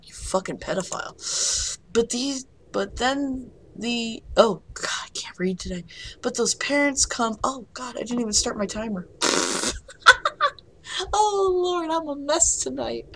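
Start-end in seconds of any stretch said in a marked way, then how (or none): 4.4-5.8 soft whispered self-mockery; embarrassed whisper over her notes; whispered aside. Real, not acted. 11.1-13.1 high laughing whine; squeaky laugh-cry at herself; laughing despair. Real, not acted. Laughing at her own blunders.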